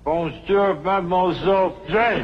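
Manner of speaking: hillbilly French. Shown as a demonstration. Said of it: "Now say it".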